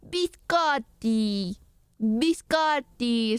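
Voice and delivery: "Biscotti" very slow, middle syllable stretched; mock-Italian "Biscotti", each syllable savored; imitated Italian pronunciation. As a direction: draw out "Biscotti" like the tutorial, bis-KAHT-tee. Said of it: "stress on the middle syllable and on the double".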